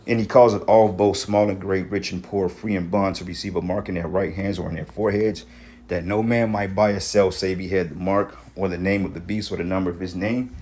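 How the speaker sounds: scripture reading. Acted. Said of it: "it says here".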